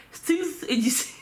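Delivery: "Stealth" as "stils" through laughter; laughing at her own English; laughing mispronunciation. Real, not acted. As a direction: giggle while mangling the word. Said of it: "je sais pas pourquoi je le dis comme ça".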